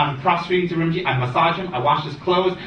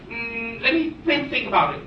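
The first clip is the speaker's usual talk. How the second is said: mock pondering student; 8 semitones higher than usual. Student ponders teacher's request.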